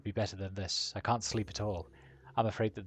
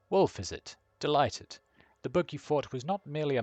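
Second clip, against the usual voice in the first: higher, louder, arch greeting; arch elf; 5 semitones higher, 4 dB louder than usual. Acted. Painted elf sizes up Wolf, arch and higher. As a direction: greet him with a sly air.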